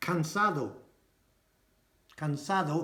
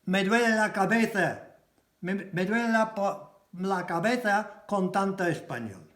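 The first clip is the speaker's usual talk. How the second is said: said with a smile; 4 semitones higher than usual. Shown as a demonstration. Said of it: "there's a smile on it".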